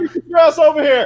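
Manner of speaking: shouting. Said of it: "yelling at somebody else".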